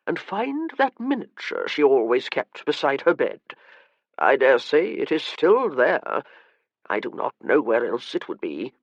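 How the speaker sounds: lightly voiced old man giving orders, bitter; a hint of a sour old gentleman; weary old master. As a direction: dismiss the matter like a tired aristocrat.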